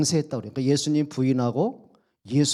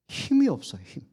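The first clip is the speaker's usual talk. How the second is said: pitched much higher, cried out; emphatic repeat; 7 semitones higher than usual. Acted. Preacher hammering his point to congregation, high and urgent. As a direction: lift the line high to drive it home.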